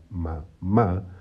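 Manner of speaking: "mamá" in two syllables, accent on the final "má"; stress on last syllable. Shown as a demonstration. Teacher repeating the example word, final-stressed "mamá". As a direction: say "mamá" separated, leaning on the second "má". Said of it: "ma, que es donde está el acento".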